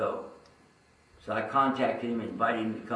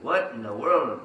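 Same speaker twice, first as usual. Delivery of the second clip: amazed; 4 dB louder than usual. Retold or imitated. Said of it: "I was amazed at".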